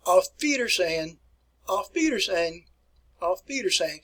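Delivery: "Auf Wiedersehen" modelled for learners; "Auf Wiedersehen" as a repeatable classroom example; German pronunciation. Shown as a demonstration. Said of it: "here's how you say it in German".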